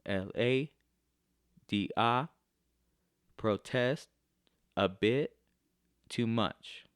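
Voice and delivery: "protest, a bit, too much" in separate two-beat feet, second syllable punched; bouncing iambic feel. Shown as a demonstration. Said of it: "kinda have that little bouncing feel".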